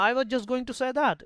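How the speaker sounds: high, slow, drawn out; smug credit-taker. Retold or imitated. Brother claiming the idea was his. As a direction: stretch it out smugly. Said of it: "जैसे यहाँ बोला ना".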